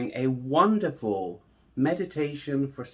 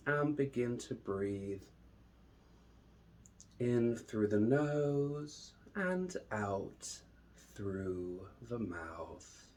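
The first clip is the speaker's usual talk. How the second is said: slow, drawn-out meditation voice with long pauses; unhurried, measured calm, lingering on each phrase; guided meditation; slower than usual. Acted. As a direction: guide them calmly into the breath.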